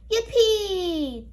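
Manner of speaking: high happy cheer. A narrator's reading. Children cheering at the playground, excited. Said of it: "cheered the children".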